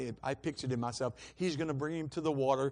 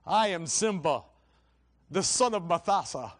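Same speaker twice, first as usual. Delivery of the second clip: Simba's declaration; 2 semitones higher, 6 dB louder than usual. Acted. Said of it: "He says".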